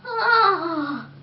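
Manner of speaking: soft, faint groan; a tired little moan; weak moan. Acted. Tooth moans weakly after brushing, soft groan. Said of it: "moaned the tooth weakly".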